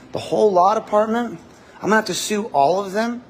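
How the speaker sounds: high, loud disbelief at the whole lot; incredulous ranting. Real, not acted. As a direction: pitch jumps high and loud. Ranting about suing everyone in disbelief.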